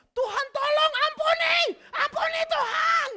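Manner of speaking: shrieked, slow, high plea for mercy; terrified prayer. Retold or imitated. Pastor reenacting his prayer mid-ride, shrieking high and slow. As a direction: beg God in panic, very high and loud. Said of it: "dan di situ gue langsung".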